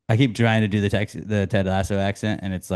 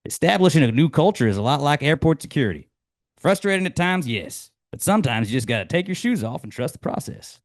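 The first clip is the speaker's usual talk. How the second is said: higher, upbeat folksy delivery; Ted Lasso quote; 5 semitones higher than usual. Acted. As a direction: pitch it like a pep talk.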